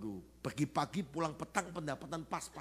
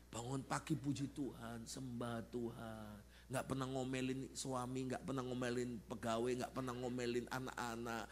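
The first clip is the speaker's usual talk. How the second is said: lightly voiced pious wife, softer and even; mock saintly wife; 2 semitones lower, 4 dB quieter than usual. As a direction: recite softly like a model wife. Mimics ideal wife's saintly morning devotion. (tiruan lembut istri saleh)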